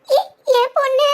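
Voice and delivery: choked, happy crying; tearful joy. Acted. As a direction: overcome with joy for a daughter. Tearful joy at pregnancy news. (ஆனந்தக் கண்ணீரோடு)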